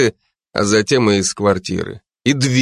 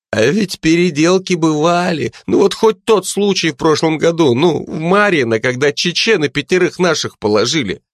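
put-on drunk rambling; 5 semitones higher than usual. A narrator's reading. Пьяный Колобок жалуется другу.

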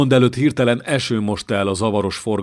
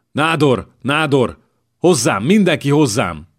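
panicked call; 5 semitones higher, 4 dB louder than usual. Acted. Panicked king calls for help.

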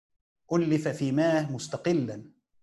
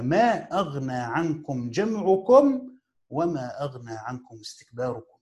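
slow paraphrase; slower than usual. Shown as a demonstration. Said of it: "والمعنى استكباركم".

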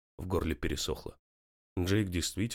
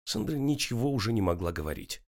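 plain reading voice

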